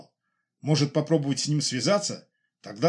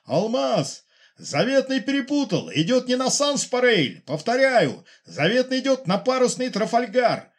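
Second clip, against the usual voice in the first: high, loud, urgent pilot calling base; urgent radio shout; 11 semitones higher, 3 dB louder than usual. Acted. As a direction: shout the warning over static, pleading. (громкий тревожный крик в рацию)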